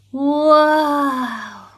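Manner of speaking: loud, long wow; storyteller amazed by wings. A narrator's reading. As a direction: marvel out loud. Wings revealed.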